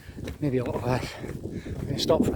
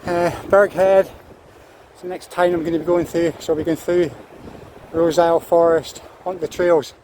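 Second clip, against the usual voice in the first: raised voice against strong wind; shouting over wind; 3 semitones higher than usual. Real, not acted. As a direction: call out over the gusts. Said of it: "Hope you can hear me all this wind".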